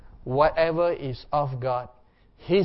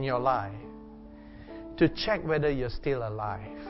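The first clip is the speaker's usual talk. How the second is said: reflective preaching. Acted. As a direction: preach gently into a time of prayer. Meditative preaching over worship music.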